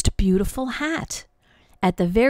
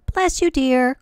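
called out; 5 semitones higher, 3 dB louder than usual. Acted. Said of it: "called her mother".

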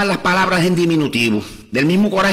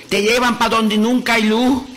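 high, slow wailing lament at the coffin; wailing widow; 6 semitones higher than usual. Acted. Widow clinging to her husband's coffin, high slow wailing lament. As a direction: cry it out over the coffin like a grieving widow. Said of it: "empezó a gritar hablando".

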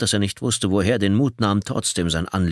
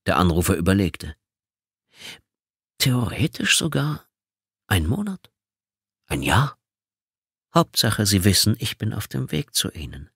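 lightly voiced sinister caller, unhurried; a hint of a mocking killer on the line; taunting caller. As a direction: savour each threat.

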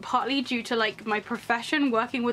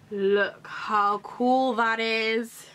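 awed, slow; much slower than usual. Real, not acted. Awed by the letter.

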